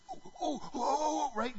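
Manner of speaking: high, eager "oh, oh" from an angel begging to be picked. Pretend. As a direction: pick me, pick me, hand up high.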